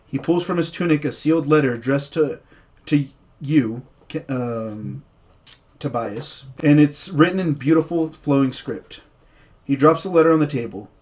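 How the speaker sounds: story narration. Acted. DM narrating the opening scene to his players, dramatic storyteller voice. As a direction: paint the foggy tavern for the players.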